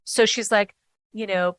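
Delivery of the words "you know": ordinary talk, nothing marked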